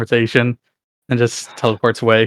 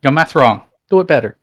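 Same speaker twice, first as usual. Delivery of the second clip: mock taunt; 4 semitones higher, 3 dB louder than usual. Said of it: "He's gonna, like".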